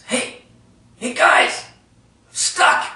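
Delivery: stuck man calling to friends up ahead; calling out for help. Retold or imitated. Ryan calls out stuck in tunnel.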